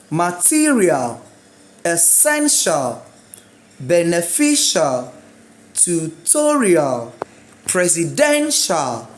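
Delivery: "Material, essential, Beneficial, tutorial, presidential" slowly, stressed syllable stretched then falling; word-list drill, each stress held long; second-to-last stress. Shown as a demonstration. Teacher modelling I A L words, slow stressed syllables. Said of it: "Second to last syllable".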